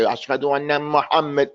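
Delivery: "Muhammad" without the held shadda; wrong adhan pronunciation. Shown as a demonstration. Teacher showing a muezzin's mistake, undoubled m in "Muhammad". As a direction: rush "Muhammad" with its middle m undoubled. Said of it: "You don't say".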